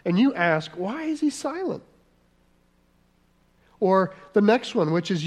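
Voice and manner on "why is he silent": much higher whiny question; mock complaint. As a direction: mimic a petulant complainer. People's complaint voiced.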